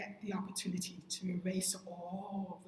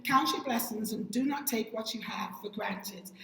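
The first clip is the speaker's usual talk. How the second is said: unvoiced whisper of a proverb; hushed whispered reading; 4 dB louder than usual. Shown as a demonstration. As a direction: breathe the saying out in a whisper. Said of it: "whispered proverb".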